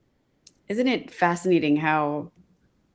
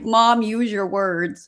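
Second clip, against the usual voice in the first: slow, higher-pitched mock chiding; lightly imitated daughter; 4 semitones higher, much slower than usual. Daughter telling her forgetful mom off, lightly mimicked. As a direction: draw it out like a child coaching a parent. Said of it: "My daughter is like".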